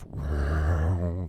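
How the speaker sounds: long vocal boom imitating a piano note; drawn-out noise mimicking a sound effect; imitated piano effect. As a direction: mimic a deep film-score piano swell. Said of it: "this effect of".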